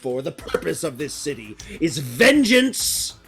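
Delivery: emphatic vow of revenge, falling away at phrase ends; vengeful slaver leader. Acted. Slaver vowing to tear down their shrines, vengeful. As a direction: swear vengeance like a bitter leader.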